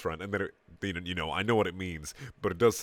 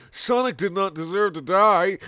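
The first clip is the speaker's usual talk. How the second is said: high character voice; 10 semitones higher, 8 dB louder, slower than usual. A narrator's reading. Character line.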